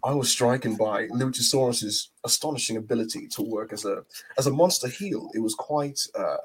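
a light British accent, mildly put on; lightly voiced British accent for a wrestling review. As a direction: review the match as a posh English pundit. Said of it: "in the British accent".

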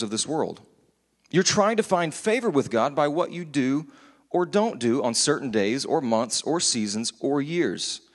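measured, emphatic public reading; scripture reading. Acted. Preacher reading Paul's letter to the congregation, emphatic scripture reading. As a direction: read it out firmly, pausing between phrases.

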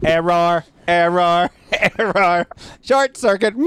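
glitching robot; stuttering broken robot, laughing. Pretend. Playing the robot.

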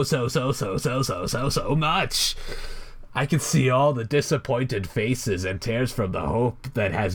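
lightly voiced theatrical villain, mocking; Joker. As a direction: taunt the helpless hero with mild mock menace. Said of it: "the Joker rant continues".

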